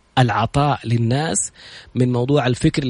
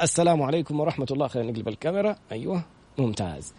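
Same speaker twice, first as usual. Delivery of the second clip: distant, faint voice off mic; far from mic; 7 dB quieter than usual. Real, not acted. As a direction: speak from across the room. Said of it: "حتقربي من المايك زي كده".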